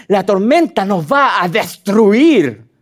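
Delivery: slow, hammed-up doom; mock dramatic. Preacher mocking the disciples' storm panic, hammed-up dread. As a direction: overplay the fear like a drama. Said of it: "Súper dramático".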